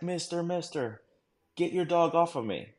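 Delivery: high-pitched mock plea; imitated pleading. Bitten man begging the handler, imitated high plea. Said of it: "in, in Middle Eastern, like, accent".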